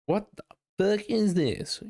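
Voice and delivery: high-pitched put-on disgust; exaggerated horrified disbelief; mock appalled. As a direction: play a scandalized listener recoiling. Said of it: "they're probably gasping audibly".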